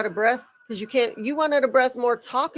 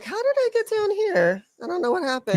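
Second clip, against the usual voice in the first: mock baffled Miz; 8 semitones higher than usual. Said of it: "The Miz is like".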